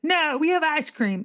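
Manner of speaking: a drawn-out no; imitating husband. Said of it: "he said".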